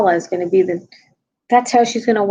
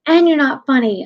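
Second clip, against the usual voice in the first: imitating daughter; 8 semitones higher, 6 dB louder than usual. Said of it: "My daughter was like".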